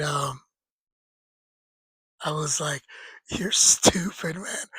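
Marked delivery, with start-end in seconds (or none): 3.3-4.7 slow put-down through real laughter; cracking up while teasing a friend; laughing. Real, not acted. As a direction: laugh breaking into the words. Laughing at friend's reckless story.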